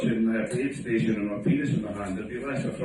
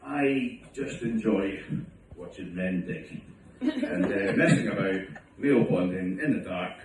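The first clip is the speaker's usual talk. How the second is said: slow sarcastic reply; 2 semitones lower, slower than usual. Retold or imitated. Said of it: "Where I would reply".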